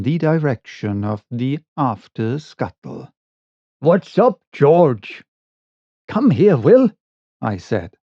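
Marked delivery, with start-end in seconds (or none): 3.8-5.2 calling out. A narrator's reading. Mate calls from the scuttle. 6.1-6.9 raised, urgent call. A narrator's reading. Urgent call to his mate.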